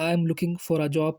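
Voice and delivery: slow, careful English model sentence; slow demo. Shown as a demonstration. Teacher showing job seekers how to say it, slow. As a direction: say it slowly so students can copy. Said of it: "किस तरीके से बोलेंगे".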